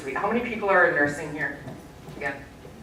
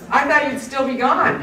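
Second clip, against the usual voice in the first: much higher, laughing through the joke; laughing tease; 9 semitones higher, 4 dB louder than usual. Retold or imitated. Surgeon joking with Jim, laughing and higher. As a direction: laugh while you rib him. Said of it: "And he goes".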